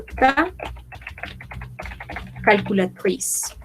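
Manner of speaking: "ta", long pause, then "calculatrice"; word by word. Shown as a demonstration. Teacher models French for learners, word by word. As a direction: hold "ta" apart from "calculatrice".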